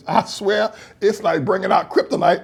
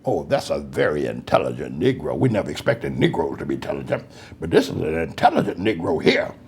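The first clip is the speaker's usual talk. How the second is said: mock condescension. Pastor mocking patronizing white folks, low and snide. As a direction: purr it low like a smug patron.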